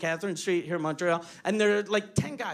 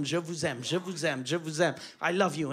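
tender French declaration; 4 semitones lower than usual. Retold or imitated. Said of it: "I kept on telling him".

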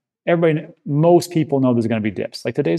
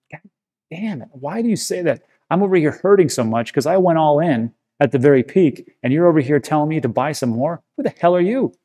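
hammed-up rant at YouTubers; retold anger; 3 semitones higher than usual. Replaying his past self's rant at cheerful YouTubers, mock angry. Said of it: "I used to get so pissed off".

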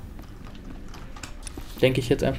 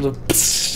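hiss sound; 4 dB quieter than usual. Retold or imitated. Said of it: "auf so eine Bratpfanne getreten".

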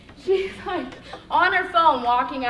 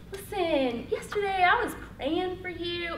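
acted nerves, voice pitched up; nervous; 3 semitones higher, 3 dB quieter than usual. Telling a near stranger about praying for her, nervously. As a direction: push it out in an unnaturally high, nervous tone. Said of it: "nervous, talking like this".

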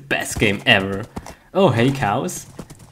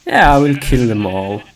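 louder, fast, hammed-up threat; mock menace; 6 dB louder, faster than usual. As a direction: play the cartoon villain, quickly. Mock rage at game animals.

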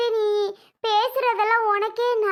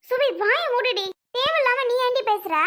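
higher-pitched, cross telling-off; angry scolding; 4 semitones higher than usual. Acted. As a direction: shut the child up with raised pitch. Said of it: "ஏன் பிரியா கோவப்படுற".

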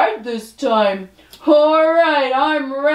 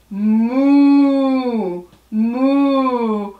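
cow moo. Pretend. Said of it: "I'm going to make an animal sound".

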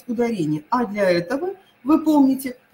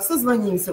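созвонимся stressed on «ним»; созвонимся, third syllable stressed. Shown as a demonstration. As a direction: hit the И in созвонимся. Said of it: "уйдёт на «и»".

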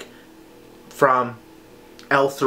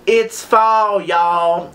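higher, hammed-up southern drawl; crazy southern accent; 7 semitones higher, 4 dB louder, much slower than usual. Quoting the TikTok guy's sign reading, in a crazy southern accent. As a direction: draw the vowels out in a mock southern twang. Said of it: "crazy southern accent".

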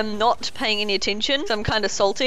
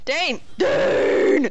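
calling out; 4 semitones higher than usual. Real, not acted. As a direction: yell a warning to a teammate. Calling teammate in danger.

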